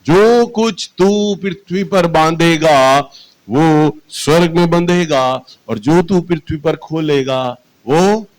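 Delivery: scripture quote. Retold or imitated. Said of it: "मुझे याद दिलाया".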